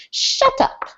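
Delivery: put-on hushed, half-hearted French accent; badly faked French accent, barely voiced; attempted French accent. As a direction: try a French accent and give up on it. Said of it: "I can't do a French accent".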